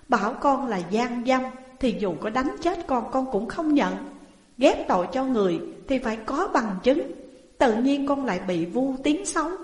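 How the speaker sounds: a hint of a desperate plea; pleading protest. Accused woman protesting innocence.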